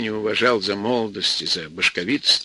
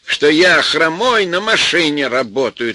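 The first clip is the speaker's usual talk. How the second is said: shouting; 4 semitones higher, 4 dB louder than usual. Acted. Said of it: "тоже закричал Веня".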